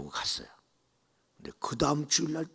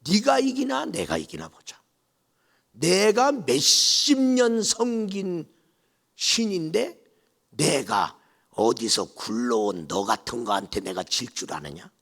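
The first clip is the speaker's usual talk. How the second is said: defiant challenge; 6 dB louder than usual. Retold or imitated. Mother-in-law challenging the bride, scornfully. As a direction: dare her to win.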